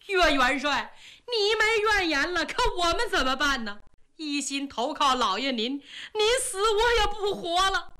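a servant weeping for his doomed master; crying. Acted. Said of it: "王恒一听就哭了". (带着哭腔)

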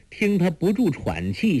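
ordinary delivery

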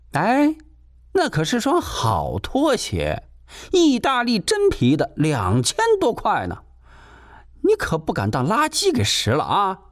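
high, shrill-edged landlady voice, needling; sharp landlady. Acted. Landlady warning the tenant off her slippers, high and needling. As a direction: play the suspicious landlady nagging.

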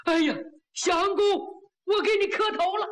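high, gushing thanks; overjoyed gratitude. Acted. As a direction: thank a saviour effusively. Overjoyed man thanking benefactor.

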